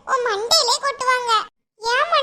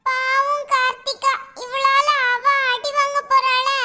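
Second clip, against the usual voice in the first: mock pity; slower than usual.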